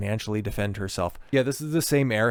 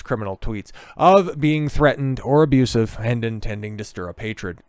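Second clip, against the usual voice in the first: put-on Scottish accent; 4 dB louder than usual. Continues Scottish politician impression.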